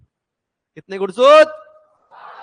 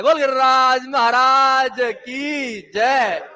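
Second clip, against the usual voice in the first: slow, stretched-out acclamation; devotional cheer; much slower than usual. Real, not acted. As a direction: call it out long for the crowd to answer.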